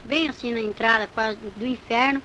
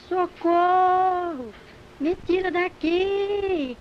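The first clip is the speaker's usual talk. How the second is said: high, very drawn-out wail for help; imitated desperate screaming; 6 semitones higher, much slower than usual. Hooked young woman begs for rescue, desperate wailing cry. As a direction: wail slowly as the trapped woman. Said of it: "começou a chorar e desesperada, me gritando".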